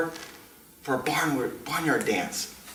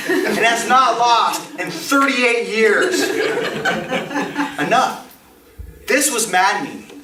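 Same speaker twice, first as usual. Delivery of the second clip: louder, higher exasperated rant; mock outrage; 7 semitones higher, 6 dB louder than usual. Grown Johnny fed up with Al King, mock outrage. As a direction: build up the fury.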